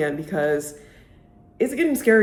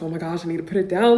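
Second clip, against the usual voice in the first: excited gush; faster than usual. Retold or imitated. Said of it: "I'm just like".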